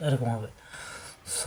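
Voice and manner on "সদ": সদ with the rounded vowel held very long before the d; long-drawn letter name. Shown as a demonstration. Teacher demonstrating the letter's length, long-held সদ. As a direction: stretch the middle of সদ steadily, then close it. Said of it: "সরলি পরিমাণ টান হবে".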